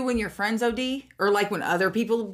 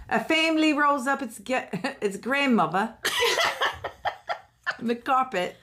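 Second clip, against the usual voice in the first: put-on British accent; 2 semitones higher than usual. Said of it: "You're so good at that".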